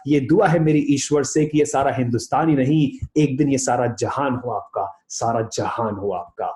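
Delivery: fast, flowing shayari recital; recited couplet. Acted. Motivational speaker reciting a couplet to his audience. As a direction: recite the Hindi lines like a poem. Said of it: "मैं कुछ दो लाइनें कहना चाहूंगा".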